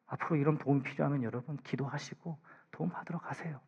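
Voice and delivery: soft, whispered encouragement; gentle whisper. Real, not acted. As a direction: coax them quietly to go get help. Tender urging in a hush.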